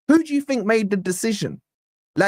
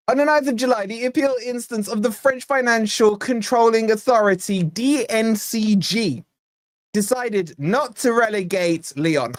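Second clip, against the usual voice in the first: professional posh voice; 2 semitones higher than usual. Pretend. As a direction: put on a pompous posh newsreader read. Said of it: "my professional posh voice on".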